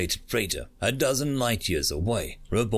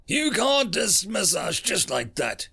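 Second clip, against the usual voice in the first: indignant shout; 10 semitones higher than usual. A narrator's reading. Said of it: "shouted Carmack".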